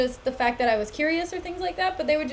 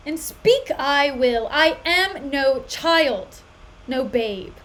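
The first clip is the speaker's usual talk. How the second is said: slow, louder, defiant lines; defiant declaration; 3 dB louder, much slower than usual. Acted. Katerina to Petruchio, slow defiant declaration. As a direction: proclaim it slowly, refusing to be silenced. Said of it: "may have leave to speak".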